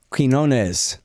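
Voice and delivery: Quinones said with a K sound, kin-OH-nez; host showing Pete's name, Quinones with a K. Shown as a demonstration. Host says Pete's surname, Quinones with a K. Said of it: "I don't really pronounce that U".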